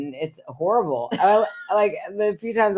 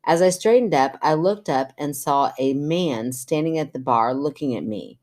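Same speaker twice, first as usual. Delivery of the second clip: measured podcast story reading; even-paced reader's voice; reading letter aloud; 2 semitones lower than usual. Acted. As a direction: read a listener's letter out clearly. Reads listener's letter aloud.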